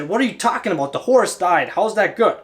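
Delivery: mildly exasperated, incredulous questioning; ticked-off king. Acted. King questioning his servant over the dead horse, ticked off. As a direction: challenge it with mild irritation. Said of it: "always get ticked by that".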